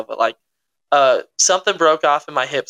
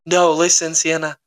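mild retold panic, insistent; a touch of mock alarm; retold freak-out; 2 semitones higher than usual. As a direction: urge it as if in danger. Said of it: "I was freaking out".

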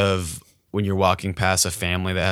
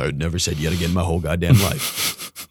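put-on deep voice, sinking lower; 3 semitones lower, 3 dB quieter than usual. Caught thief denying he said it, put-on deep voice. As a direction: deny it in a fake deep voice. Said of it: "I'd make my voice really deep".

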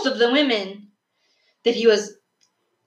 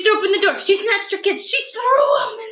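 dramatic storytelling; 10 semitones higher than usual. A narrator's reading.

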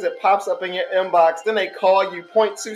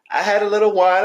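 laughing through the words. Real, not acted. Laughing to her cohost about the wine. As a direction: giggle it out.

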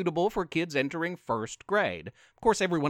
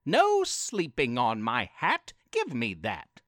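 yelling lady. Acted. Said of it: "Then a lady yelled".

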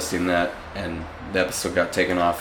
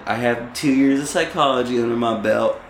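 Britta impression. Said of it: "I even, like, delivered that like she would too".

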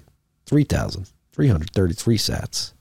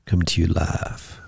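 soft, sultry late-night jazz host; sultry radio DJ; 4 dB quieter than usual. Pretend. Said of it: "Should I start a jazz radio station?".

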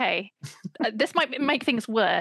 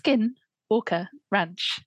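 slow ominous; much slower than usual. Shown as a demonstration. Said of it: "curse yourself again".

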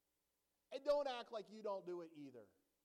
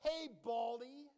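mock taunt; 3 semitones higher, 7 dB louder than usual. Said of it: "they call him".

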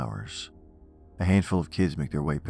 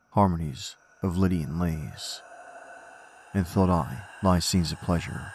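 poem recitation. Acted. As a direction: recite it with dark gravity.

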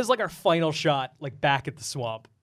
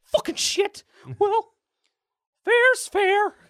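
high, loud cartoon villain voice; villain's grudging concession; 5 dB louder, slower than usual. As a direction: spit it out like a sore loser.

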